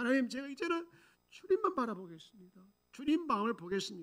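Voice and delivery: mock high, wailing lament. Retelling the pastor's repentant prayer to God: imitating wailing prayer. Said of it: "통곡하면서".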